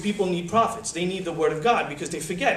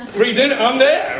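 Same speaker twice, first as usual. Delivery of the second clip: laughing, louder, slower, eager for free food; laughing mock guest; 5 semitones higher, 9 dB louder than usual. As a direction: grin through a greedy yes. Old man grabbing free dinner.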